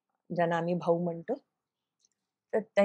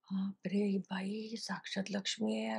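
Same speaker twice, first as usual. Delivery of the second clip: awed thought in a hushed whisper; inner voice-over; 11 dB quieter, slower than usual. Retold or imitated. Seeing the temple lady, thinks to herself, whispered voice-over. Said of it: "असं एक voice over गेला माझा".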